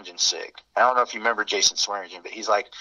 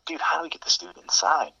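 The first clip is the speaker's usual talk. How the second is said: hushed whisper, higher and breathless; 6 semitones higher, 3 dB quieter than usual. Retold or imitated. Friend whispering to the guys about getting him inside. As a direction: whisper so the others can't hear. Friends hushing each other outside.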